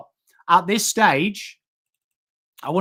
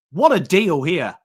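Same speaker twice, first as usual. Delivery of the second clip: louder, thrilled burst at the trade news; excited exclamation; 6 dB louder than usual. Real, not acted. Podcaster hyping the trade to his co-hosts, excited. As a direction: call it out like a steal.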